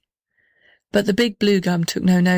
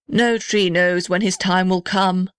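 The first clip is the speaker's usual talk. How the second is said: slow, grave voice. Acted. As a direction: speak it solemnly. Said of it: "the big blue gum answered gravely".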